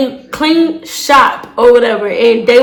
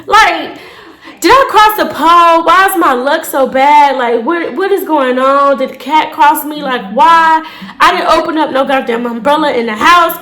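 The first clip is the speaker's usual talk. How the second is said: disbelieving outburst; 2 semitones higher than usual. Retold or imitated. To viewers, retelling the DMV news in laughing disbelief. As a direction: squeal at the bad luck through laughter. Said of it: "So I'm like".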